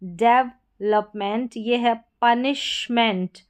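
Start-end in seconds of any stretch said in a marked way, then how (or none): 0.0-1.6 डेवलपमेंट बहुत धीरे, हर अक्षर अलग; डेवलपमेंट को खींचकर बोलें; slow clear demo. Shown as a demonstration. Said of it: "यहाँ पर उच्चारण दे रखा है". (डेवलपमेंट धीमे साफ उच्चारण में)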